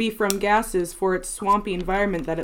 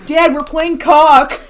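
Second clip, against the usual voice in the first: put-on laughing kid reply; 6 semitones higher, 11 dB louder, slower than usual. Playing son answering dad.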